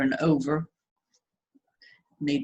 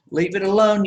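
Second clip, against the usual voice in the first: mock viewer's scolding; 4 semitones higher, 6 dB louder than usual. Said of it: "you say".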